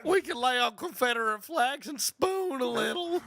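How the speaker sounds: high, slow, loud redneck caricature. Acted. Redneck calling to his buddy Cletus, high slow drawl. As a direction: drag it out as a comic hillbilly, high and loud. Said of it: "be like to be a redneck homosexual".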